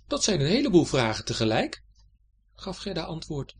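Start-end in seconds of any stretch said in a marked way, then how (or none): 0.1-1.8 put-on higher, louder child's reply; lightly voiced girl. A narrator's reading. Gerda answers the knight's many questions, higher girl's voice. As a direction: answer back as a young girl.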